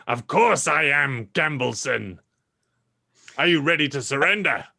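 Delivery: lightly voiced gloating villain; raspy Uncle George. Uncle George taunting Gambleson up the stairs, lightly rasped. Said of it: "Uncle George's voice coming raspily".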